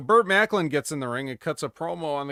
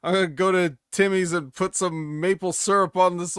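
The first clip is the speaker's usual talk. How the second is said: mock Canadian promo; 5 semitones higher, 4 dB louder than usual. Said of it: "he's like".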